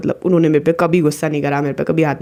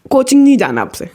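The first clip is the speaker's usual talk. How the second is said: higher, firm retold order; angry mother; 5 semitones higher, 3 dB louder than usual. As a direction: imitate a mom laying down a ban. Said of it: "मेरी mummy का reaction एकदम opposite". (सख़्त माँ का हुक्म)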